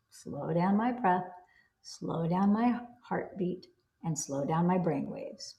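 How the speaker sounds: slow, soft calming chant; calm, slow mantra. Shown as a demonstration. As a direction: talk yourself down gently and slowly. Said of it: "Those are the three things".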